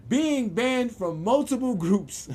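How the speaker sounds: reads the ban notice breaking into laughter; barely holds back laughter; laughing while reading. Real, not acted. Reading his ban notice to viewers, laughing.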